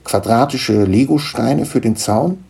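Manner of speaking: a touch of a proud little gnome; lightly voiced gnome father. Gnome introducing his children to Niklas, lightly voiced.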